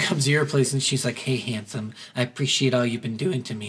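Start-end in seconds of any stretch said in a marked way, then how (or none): 1.2-3.7 lower, much softer sultry line; mock seductive. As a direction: purr it like Vivian seducing. Voicing seductive Vivian.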